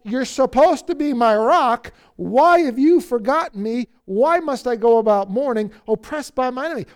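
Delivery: loud, mildly pleading protest; crying out. Acted. Psalmist to God, his rock, loud reproachful cry. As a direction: demand an answer from God. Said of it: "he cries out in verse nine".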